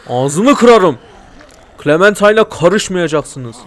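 loud furious yelling; angry shouting. Real, not acted. Shouting at villains in game. (kötü adamlara öfkeyle bağırarak)

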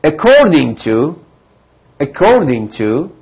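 slow, drawn-out "According to"; model pronunciation. Shown as a demonstration. Teacher modelling pronunciation for students, slow careful "According to". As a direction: say "According to" slowly and carefully for learners.

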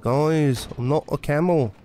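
lightly voiced impression, slightly off-target; impression that drifts toward a singer; Jeff Yard impression. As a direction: mimic someone protesting, a touch put-on. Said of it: "my Jeff Yard impression saying he's not a camel".

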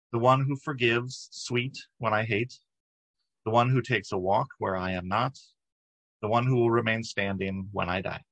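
measured, reflective verse reading; poem reading. Acted. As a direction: read each line of the poem deliberately, pausing between. Reads a poem aloud.

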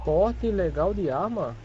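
drawn out slowly, in doubt; slow, incredulous echo of the question; slow disbelieving repeat. Acted. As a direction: stretch every word as if you can't believe it. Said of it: "Como é que é?".

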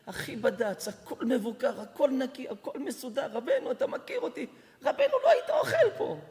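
laughing, rising to a high squeal; pleading laugh. Retold or imitated. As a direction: laugh in disbelief as you plead. Owner pleading, laughing in disbelief.

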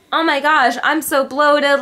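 high, loud imitation of a complaint; mock dismayed girl. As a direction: whine about bloating, mocking. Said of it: "they would be like".

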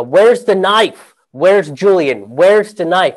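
mock panicked guard repeating the question; urgent demanding. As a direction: press him hard for the knife. Security guards freaking out.

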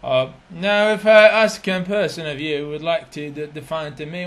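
a teacher's attempt at a British accent, slow; a light British accent demo. Shown as a demonstration. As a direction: put on British RP for the class, slowly. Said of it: "راح أحكي لكم هسه بلهجة بريطانية".

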